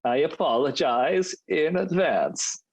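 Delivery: put-on slow, high, clumsy Danish accent. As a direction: drag out a weak Danish accent. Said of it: "Was that an accent?".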